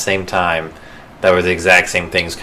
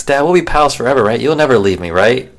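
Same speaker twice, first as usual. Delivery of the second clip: a hint of a pleading cub, a little higher; young Simba; 5 semitones higher than usual. Simba asking his father in a lightly higher child voice. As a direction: ask like a child seeking comfort. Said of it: "Simba asks".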